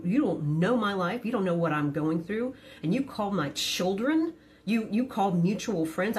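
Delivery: retold furious tirade, mounting in pitch without shouting; teatralne syczenie ze złości. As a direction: act out losing it without raising your voice. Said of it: "I can theatrically hiss like a motherfucker".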